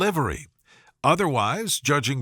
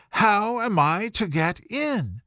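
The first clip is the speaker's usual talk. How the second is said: raised higher and slower, pressing the question; Alice asks again, pitched up and more insistent; louder, insistent; 6 semitones higher than usual. A narrator's reading. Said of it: "in a louder tone".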